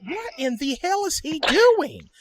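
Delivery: high, drawn-out disbelief; bewildered. Retold or imitated. Player baffled by Walnut yelling mid-scene, slow high-pitched bewilderment. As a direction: stretch the question out, incredulous.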